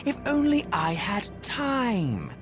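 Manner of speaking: high sing-song mock of the player's excuse; a hammed-up whiny imitation; mocking the listener. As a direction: parrot their excuse back, mocking. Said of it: "I know what you're thinking".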